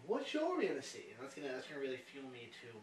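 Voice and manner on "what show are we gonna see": mock nagging, pitched up; imitation of a persistent nag; nagging question. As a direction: pester him with an eager high question. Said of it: "you're just gonna keep asking me".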